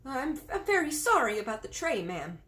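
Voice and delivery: a frightened servant apologising with a shaky voice; quivering maid. A narrator's reading. Maid apologises to the queen over the dropped tray, trembling. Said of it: "The maid's voice was quivering terribly".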